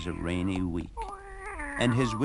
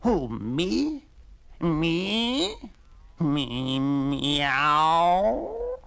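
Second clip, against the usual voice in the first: high, disbelieving cat squeak ending in a meow; a flattered cat who can't believe it; surprised cat; 8 semitones higher, 4 dB louder, much slower than usual. Acted. Cat amazed at being asked.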